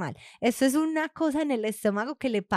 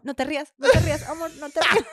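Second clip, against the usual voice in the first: laughing plea; 4 semitones higher, faster than usual. Retold or imitated.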